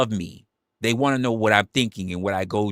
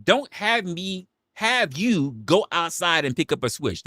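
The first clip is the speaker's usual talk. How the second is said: scolding Southern mom; 9 semitones higher than usual. Retold or imitated. Streamer mimicking mom in chat, high scolding voice. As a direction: mimic mom warning about a switch. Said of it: "here's what you sound like".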